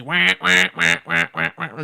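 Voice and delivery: constant duck quacking. Shown as a demonstration. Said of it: "have you ever heard a duck that's constantly".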